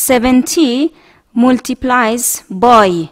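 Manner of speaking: slow, clear model reading. Shown as a demonstration. Teacher reading a multiplication problem aloud for the class, slow. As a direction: say each word slowly. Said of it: "Next one, number four".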